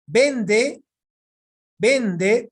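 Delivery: VEN in "Vende" punched loud and high; stress on penultimate. Shown as a demonstration. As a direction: lean hard on the first syllable of "Vende". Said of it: "palabra grave".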